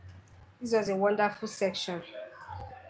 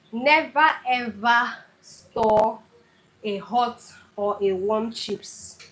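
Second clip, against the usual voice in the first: slow, emphatic warning on never ever; stern kitchen caution; firm warning; slower than usual. Real, not acted. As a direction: lean hard on never, slowly. Warning viewers about storing chips.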